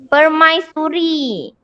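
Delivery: permaisuri drawn out slowly; slow model word. Shown as a demonstration. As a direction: stretch permaisuri out syllable by syllable. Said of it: "kita sebut permai". (sebut permaisuri dengan perlahan)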